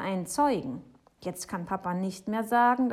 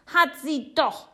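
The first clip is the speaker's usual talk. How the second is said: high, loud retort; shouting; 9 semitones higher, 10 dB louder than usual. A narrator's reading. Boy insisting to Papa, shouting high. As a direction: yell it back defiantly. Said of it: "schreit Jonathan".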